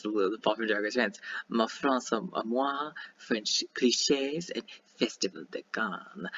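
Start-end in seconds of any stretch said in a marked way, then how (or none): 1.5-6.3 slow, lightly faked French accent; attempted French accent. Shown as a demonstration. Reading French ball themes to viewers, shaky attempt at a French accent. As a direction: have a clumsy go at French pronunciation. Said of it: "I can't do a French accent".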